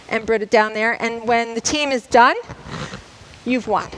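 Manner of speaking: breathless after running the course; winded, catching her breath. Real, not acted. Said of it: "And I'm out of breath".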